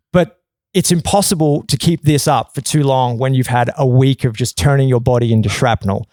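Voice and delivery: ordinary talk, nothing marked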